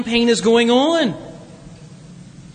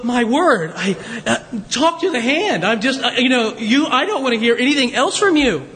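offended snub. Retold or imitated. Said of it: "You hear the words like".

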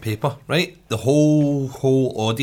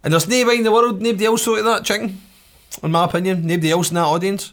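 loud, fast and worked up; getting louder, more worked up; excited; 6 semitones higher, 4 dB louder than usual. Real, not acted. Excited rant about the chicken.

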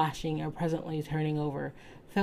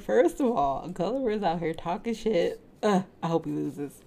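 mocking aside; 2 semitones higher than usual. Real, not acted. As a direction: roll your eyes at him. Reader's own side comment.

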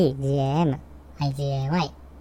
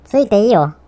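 emphatic encouragement; 6 semitones higher, 9 dB louder than usual. Real, not acted. Urging friend to lie kindly.

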